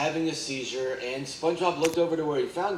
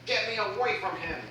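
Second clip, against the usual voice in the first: frightened yell; 6 semitones higher than usual. A narrator's reading. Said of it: "teared up, trembling with fear, yelled".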